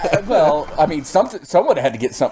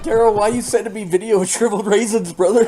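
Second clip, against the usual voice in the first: Jason imitation; 8 semitones higher than usual. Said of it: "Jason's like".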